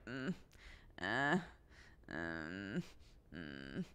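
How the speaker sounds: sleepy whimpering imitation; baby fussing sounds. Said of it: "you could hear her over the baby monitor just like".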